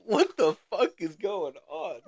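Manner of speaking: high, slow exasperated exclamation; baffled disbelief. Retold or imitated. Storyteller reacts to lady knowing his friend, high and baffled. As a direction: stretch it out high in bewilderment.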